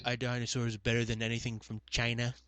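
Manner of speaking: low, softened politician impression; understated parody of a boasting politician; Trump.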